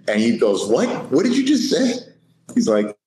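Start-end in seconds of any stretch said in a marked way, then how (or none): 0.7-1.9 high, retold disbelief; incredulous. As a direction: imitate a trainer who can't believe his ears. Trainer reacts in disbelief.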